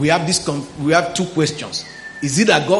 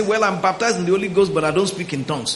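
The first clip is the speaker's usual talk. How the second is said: quoting doubters; 3 dB quieter, faster than usual. Retold or imitated. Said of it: "you meet some people that say".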